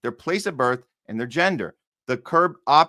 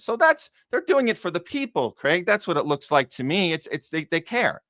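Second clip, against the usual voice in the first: mocking the official excuse with high pitch; dripping sarcasm; sarcastic; 4 semitones higher than usual. Mocking government's stated motives.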